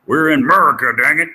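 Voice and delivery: hammed-up indignant cry; mock patriotic outburst. Teacher insisting on US dollars, with a mock indignant outburst.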